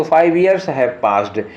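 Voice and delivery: reading the sentence very slowly, word by word; slow dictation read. Shown as a demonstration. Teacher reading the question sentence to students, very slow and deliberate. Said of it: "example sentence read out".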